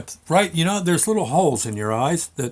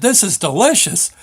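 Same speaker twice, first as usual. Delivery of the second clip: loud, higher exclamation of delight; hollered praise; 6 semitones higher, 4 dB louder than usual. Retold or imitated. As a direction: call it out loud, thrilled by the taste. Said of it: "I just hollered out loud".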